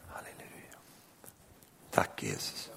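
soft, unvoiced, reverent whisper.

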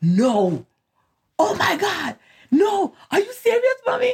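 very high, swooping, thrilled, disbelieving excited squeal. Retelling someone's reaction to being handed a new house key, retelling excited disbelief. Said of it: "And you were so excited".

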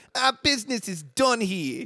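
put-on nasal, high-pitched Brooklyn accent. Quoting a movie character's line: Schmidt's high nasal Brooklyn accent.

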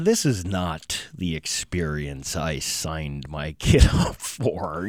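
low, slow, dry, disbelieving tone. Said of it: "I'm like".

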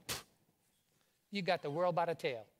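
Cajun accent, put on. Leading the audience to repeat a friend's grandmother's saying: cajun accent. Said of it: "You can't say it with a Cajun accent".

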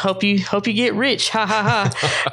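put-on mocking laugh. Retelling how a man laughed at the speaker joining a startup: imitating a mocking laugh. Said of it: "he laughs like".

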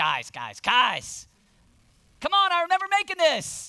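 very high, booming, drawn-out, slow, loud call. Acting out Jesus speaking to his disciples in the storm: imitating Jesus. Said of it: "he's looking at the guys going".

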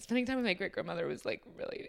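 tearful voice, on the edge of tears. Asked for a most treasured memory, recalling a great-grandmother, about to cry. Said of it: "I'm going to cry".

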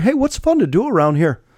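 Midwestern Iowa accent. Showing the audience an impression of somebody from Iowa, in an Iowa accent. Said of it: "I do a really good Iowa accent".

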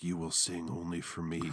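eerie, creepy, haunting, mysterious disembodied voice. Retelling a film scene where an unseen voice speaks in a dressing room: creepy mysterious Phantom voice. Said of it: "there's just a voice like".

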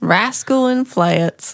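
put-on Southern twang accent. Repeating a prompted phrase in a put-on southern accent. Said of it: "there we go".

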